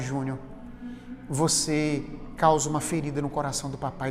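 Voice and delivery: low and soft, a gentle reproach; father softly showing his son the harm of harsh words; tender fatherly lesson. Retold or imitated. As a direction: speak to the boy with hushed love.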